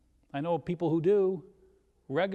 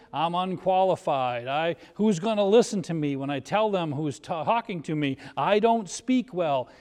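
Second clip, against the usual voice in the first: Moses' whiny excuses; 6 dB louder than usual. Acted. Moses making excuses to God.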